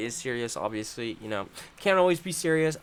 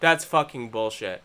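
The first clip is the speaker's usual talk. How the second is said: much lower and softer curse; low disgusted grumble; 10 semitones lower, 7 dB quieter than usual. Real, not acted. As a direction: mutter it under your breath. Anger dropping to low grumble.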